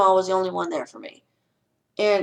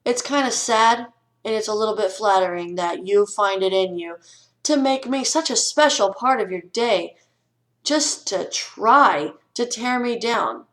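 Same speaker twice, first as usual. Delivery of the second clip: bittersweet, mocking gratitude; sarcastic sweet comeback. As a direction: drip fake sweetness on the bully, slowing at the end. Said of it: "All you gotta say is".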